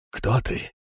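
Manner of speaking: frightened, barely voiced whisper; trembling whisper. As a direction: gasp it out in terror. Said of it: "он прошептал дрожащим голосом". (дрожащий шёпот)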